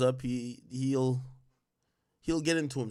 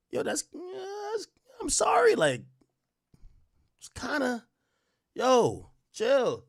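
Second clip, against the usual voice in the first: 1 laughing; 13 semitones higher, slower than usual. Real, not acted. Cracking up mid-rant.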